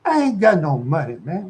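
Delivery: put-on street-talk denial; exaggerated broke-guy protest; retold protest. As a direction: act out pleading that you have nothing. Retold refusal to money demand.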